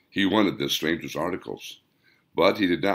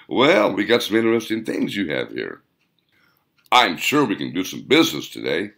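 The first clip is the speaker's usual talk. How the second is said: shopkeeper's line; 3 semitones higher, 3 dB louder than usual. Acted. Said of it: "he heard himself say".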